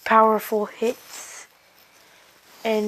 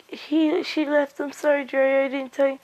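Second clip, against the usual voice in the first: higher-pitched voice for a retold apology; acted apology; 4 semitones higher than usual. She apologises to Jiraiya, higher-pitched acted voice. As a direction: lift the pitch, acting out her apology.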